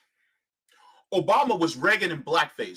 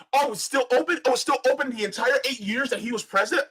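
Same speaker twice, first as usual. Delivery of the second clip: sarcastic surprise; 4 semitones higher than usual. Real, not acted.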